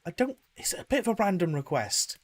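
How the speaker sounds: Val asking the vendor about flowers. Acted. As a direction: ask tentatively, pitch lifted. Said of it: "It's just like".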